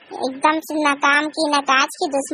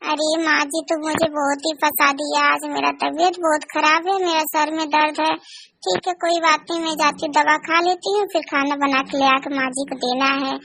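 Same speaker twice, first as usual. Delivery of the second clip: meek sick daughter-in-law; 2 semitones lower than usual. Acted. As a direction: plead weakly, head aching. बहू बीमार है, सहती है. (सिर दर्द से परेशान बहू)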